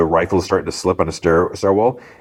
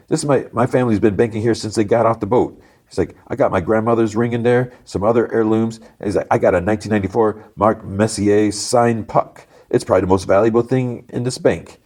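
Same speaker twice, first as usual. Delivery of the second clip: higher, put-on local guy; indignant sports fan; 4 semitones higher than usual. Sports-fan hostage tells another about his valuables, higher and insistent. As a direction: insist on what the vault holds.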